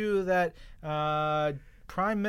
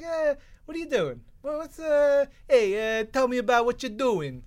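hammed-up Canadian accent, much higher and louder; 9 semitones higher, 5 dB louder than usual. Host imitating Trudeau chatting with Alpha Flight, hammed-up Canadian accent. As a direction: play up a jokey Canadian accent, open on a big eh. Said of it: "That's my Canadian accent".

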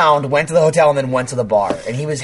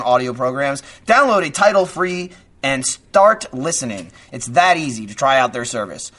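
brisk upbeat sponsor read; 3 semitones higher than usual. Acted. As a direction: sell it like a radio spot. Reads an ad.

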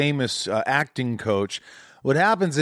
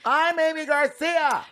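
mock haughty self-introduction; slower than usual. Host mocks guest pulling rank.

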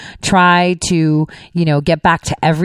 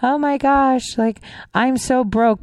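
higher, slow whiny mock of a broke student; 7 semitones higher, slower than usual. Host mocking the student who asked Warren for help, in a higher, slow, whiny voice. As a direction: drawl it out like a spoiled college kid. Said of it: "the student came up to her and said".

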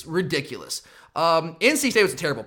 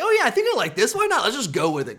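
much higher, breezy mock enthusiasm; carefree excitement; 4 semitones higher than usual. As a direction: play his own eager inner voice, way up high. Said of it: "I'm like".

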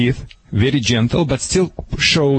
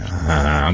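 growl; 10 semitones lower than usual. Shown as a demonstration.

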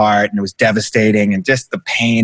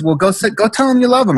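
teasing friend; 9 semitones higher than usual. Retold or imitated. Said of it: "And he goes".

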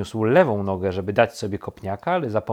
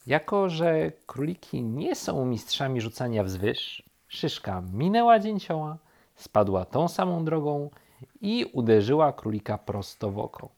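plain reading voice

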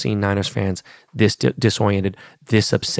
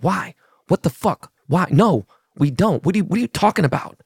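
higher-pitched mock disbelief; imitated incredulous protest; 6 semitones higher than usual. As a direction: act out a baffled player objecting. Star objecting in retold exchange.

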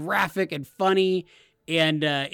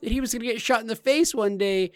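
lightly voiced alien mother; 6 semitones higher than usual. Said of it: "And she's like".

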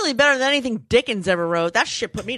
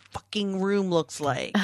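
unvoiced whisper, softer and slow; whispered aside; 2 semitones lower, 7 dB quieter than usual. Real, not acted.

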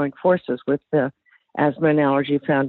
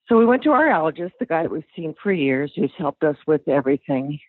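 slightly breathless from running upstairs; out of breath. Real, not acted. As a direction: talk while catching breath. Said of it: "I'm sorry, I'm out of breath".

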